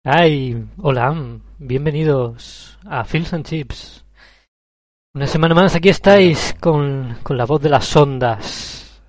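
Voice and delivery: slow, drawn-out announcer welcome; the voice of the airwaves, hammed up; radio announcer voice. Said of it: "he empezado con la misma voz".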